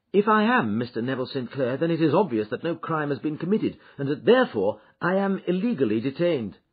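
a hint of a defiant gentleman arguing his case; prisoner voiced. A narrator's reading.

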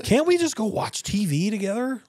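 high, put-on pleading voice. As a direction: beg sweetly to end the fight. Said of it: "I ask my wife".

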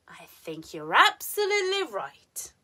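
ABSOLUTELY high, RIGHT drops; emphatic "absolutely", firm fall on "right"; falling intonation. Shown as a demonstration. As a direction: close "right" downward, very clear. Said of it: "falling intonation is very common in statements".

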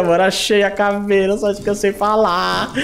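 ordinary delivery

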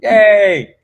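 high, loud happy squeal; thanking the host for a kind intro, with high delight. Real, not acted. Thrilled reaction to guest's words.

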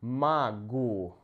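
"магу" sounded out in two parts, "ma - GOO"; "магу" said carefully as "ma-GOO"; unstressed O as A. Shown as a demonstration. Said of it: "pronounced like".

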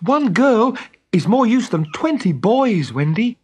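high, loud, slow flattery; boy winning a friend round, drawn out; coaxing. A narrator's reading. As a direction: coax her with earnest flattery. Boy coaxes sulking girl back.

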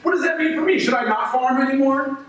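high, mocking and bitter; sarcastic rant. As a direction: sneer at the idea of herding.

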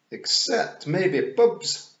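high, loud, very slow Scots; Big Yan. A narrator's reading. Big Yan adding a doubt about pubs, slow Scots voice. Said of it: "said Big Yan".

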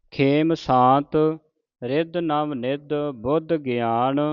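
slow, measured sacred reading; deliberate Gurbani recitation for learners; scripture recitation. Acted. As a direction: recite phrase by phrase, stretching the vowels.

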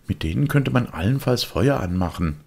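put-on high, know-it-all kid; a cocky boy brushing him off; smug boyish voice; the boy's voice. Boy scoffs.

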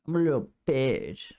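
mocking cousin. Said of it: "That's what he sounds like".

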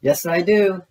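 high, eager Pooh reply; lightly voiced Pooh saying yes; Pooh in a dream. A narrator's reading. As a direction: answer with pitch lifted, as storybook Pooh. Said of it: "said Pooh in his dream".

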